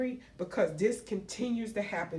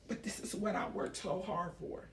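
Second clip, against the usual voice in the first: getting emotional; 6 dB quieter than usual. Real, not acted. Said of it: "I'm sorry that I'm getting emotional now".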